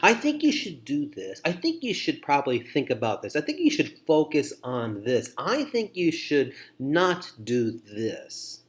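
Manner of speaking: lightly acted pushy advice, pitch lifting on openers; mock advice-giving. Listener piling advice on a person, mock advice-giving. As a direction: play someone handing out unwanted advice. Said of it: "giving advice like this".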